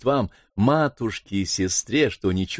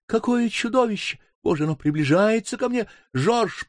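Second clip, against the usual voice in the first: higher, startled cry; frightened cry; 11 semitones higher than usual. Acted. Sister cries out to Viola in fright, higher. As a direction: she spots the monster. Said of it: "кричала сестра дрожащим голосом".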